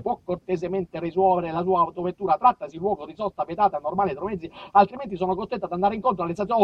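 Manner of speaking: lightly voiced officious warden; mock-formal officer; pompous traffic warden. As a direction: talk down like a bureaucrat. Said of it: "il conte vigilare".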